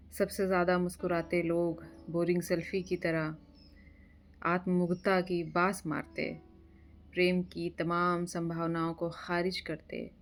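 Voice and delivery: measured poetry reading with pauses after each line; poem recitation. Acted. Reciting a friend's poem for his birthday, measured poetry recitation. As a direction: recite it line by line, letting images land.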